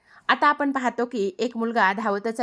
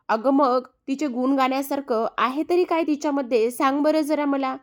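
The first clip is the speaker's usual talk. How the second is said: higher-pitched challenging question; challenging retort; 4 semitones higher than usual. Acted. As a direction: demand an answer, pitch climbing at the end. Scolding the mother about her girl.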